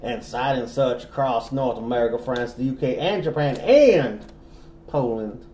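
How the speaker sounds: lightly southern narration; genteel Southern storyteller; southern accent. Pretend. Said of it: "that same accent".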